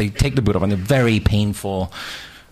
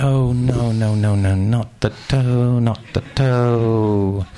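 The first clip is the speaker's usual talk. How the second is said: mock pained wail; 4 semitones higher, much slower than usual. Breaks his toe.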